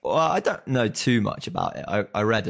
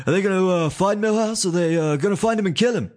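playful teasing; 11 semitones higher, 7 dB louder than usual. Real, not acted. Teasing, laughing at a trail-off.

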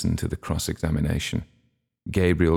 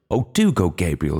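excited. Acted. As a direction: gush with delight. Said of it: "clasped her hands excitedly".

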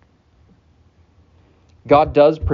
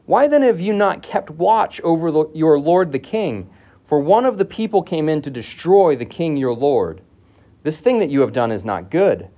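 calling out rebuke; 4 semitones higher than usual. Acted. David rebukes Abner from the hill.

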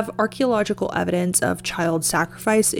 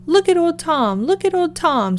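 higher, mock scream of alarm; 9 semitones higher than usual. The wife screams at the sight of old Tom, pitched up. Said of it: "screamed his wife".

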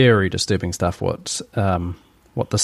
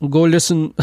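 higher, louder mock German order; Klaus's voice; 6 semitones higher, 4 dB louder than usual. Host retries Klaus to viewers, mock German. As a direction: bark it like a cartoon German boss. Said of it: "I should be doing it in Klaus, Klaus's voice".

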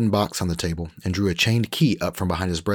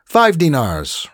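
slow, higher, louder French offer; Frenchman Rolf; 10 semitones higher, 8 dB louder, much slower than usual. Acted. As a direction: draw the offer out slowly, smug.

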